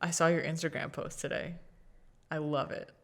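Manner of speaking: quiet, low mock confidence; hushed retold compliment; confiding aside. Retold confiding after pulling aside.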